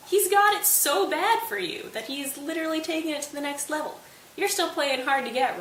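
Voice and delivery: high-pitched, impressed dad imitation; mock excitement. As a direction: marvel like an oblivious, thrilled father. Father thrilled, ignoring daughter's fear.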